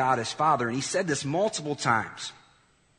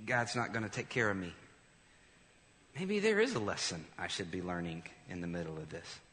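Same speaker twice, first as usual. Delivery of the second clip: doubting; 2 semitones lower, 6 dB quieter than usual. Pretend. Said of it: "you said".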